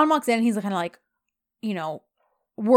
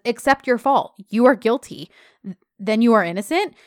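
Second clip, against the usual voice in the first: emphatic, louder accusation, retold; mock sarcastic; 5 dB louder than usual. The speaker scolds Yeet over his fault, sarcastic. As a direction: press each point with mocking force. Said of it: "John is so sarcastic".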